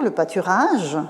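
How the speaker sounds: ordinary delivery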